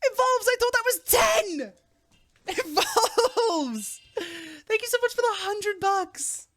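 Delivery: high excited thanks to donor; shocked excitement. Real, not acted. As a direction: squeal at the big tip. Stunned by hundred-dollar tip.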